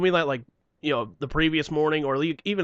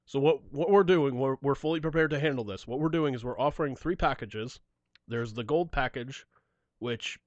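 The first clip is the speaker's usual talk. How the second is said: Gene Simmons voice; 5 dB quieter than usual. Retold or imitated. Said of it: "he keeps going in the Gene voice".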